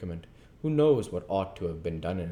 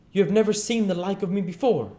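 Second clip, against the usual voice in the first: high, loud grand announcement; hearty ghost announcing; 13 semitones higher, 7 dB louder, faster than usual. Acted. Ghost introduces himself to Scrooge, high and loud. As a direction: proclaim yourself like a jolly giant. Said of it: "exclaimed the spirit".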